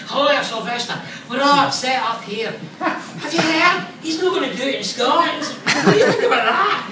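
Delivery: put-on high, loud Glaswegian accent; Glaswegian caller. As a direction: put on an agitated Glasgow newspaper caller. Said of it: "phone call from Glasgow from a newspaper".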